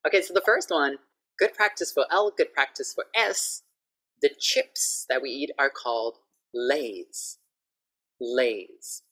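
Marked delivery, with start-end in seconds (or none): 4.2-9.0 "Lays" said slowly with a clear L and a buzzing z at the end; teacher models "Lays" carefully; slow model word. Shown as a demonstration. English teacher modelling "Lays" for Thai learners. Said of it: "you can write down".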